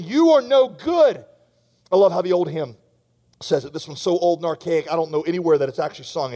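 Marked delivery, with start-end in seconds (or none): 0.0-1.2 higher, louder, slow taunting accusation; a hint of a menacing accuser; Satan accusing. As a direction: voice Satan slowly pressing the charge. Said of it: "He is saying".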